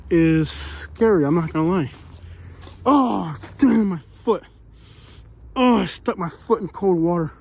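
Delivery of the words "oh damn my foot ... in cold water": startled. Real, not acted. Stepped into cold water.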